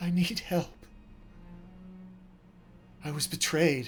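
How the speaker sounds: grief-stricken, heartbroken, high calling voice. In a game, an illusion calls back to the group in a heartbroken voice. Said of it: "The voice heartbroken".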